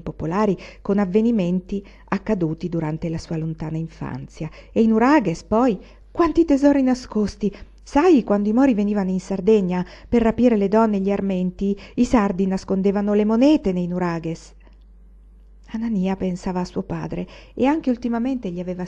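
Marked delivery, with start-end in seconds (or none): 4.7-14.6 lightly voiced old woman, raised and wondering; a hint of an old nurse spinning a ghost tale; mildly animated storytelling granny; old servant telling legends. Varvara on hidden treasures.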